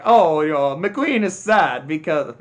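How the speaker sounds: lightly put-on Italian accent; a hint of mock Italian accent. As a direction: imitate an Italian race car, lightly accented. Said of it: "I apologize for my offensive Italian accent".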